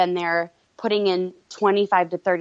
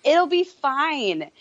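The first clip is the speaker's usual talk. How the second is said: calm husband; 7 semitones higher, much slower than usual. Retold or imitated. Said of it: "But he's just so calm".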